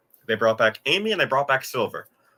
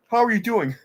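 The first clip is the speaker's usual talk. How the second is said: mock cheery greeting; 6 semitones higher than usual. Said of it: "he just, like, asked them".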